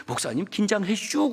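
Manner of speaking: slow, drawn-out Chungcheong elder imitation; Chungcheong dialect. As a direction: mimic the Chungcheong drawl on 긴장해 슈. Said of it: "충청도 말로". (느릿한 충청도 사투리 흉내)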